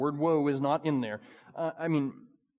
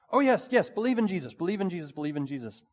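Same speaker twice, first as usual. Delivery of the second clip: mock pious agreement; 2 semitones higher, faster than usual. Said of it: "we wouldn't say it like that".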